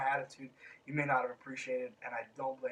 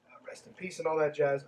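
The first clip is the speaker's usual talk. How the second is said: whispered aside. Real, not acted. Offhand aside about the dead.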